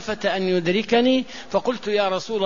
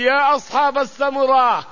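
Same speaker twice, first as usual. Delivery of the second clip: retold loud call; 5 semitones higher, 3 dB louder than usual. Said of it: "وينادي العباس بصوته الجهوري".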